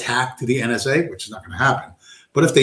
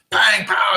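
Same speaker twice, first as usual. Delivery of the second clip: mock gunshot; 8 semitones higher than usual. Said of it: "he says".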